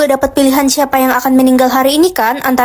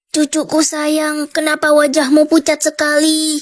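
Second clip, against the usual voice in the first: grandma voice. Acted. Speaker voices a sick grandmother.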